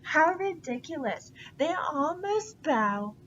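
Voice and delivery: a touch of pompous fury; megalomaniac rant. Acted. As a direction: rant like a vain tyrant. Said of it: "megalomaniac rant".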